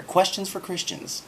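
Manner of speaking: high, dramatic title read; mock-epic announcement; grand title. Shown as a demonstration. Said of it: "cool sounding piece of rhetoric".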